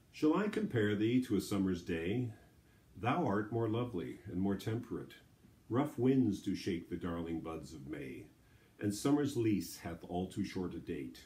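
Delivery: flowing recitation, each line starting up and settling down; measured verse reading, pausing after each line; poetry reading. Acted. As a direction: read the sonnet through with a gentle iambic lilt. Reads the sonnet through.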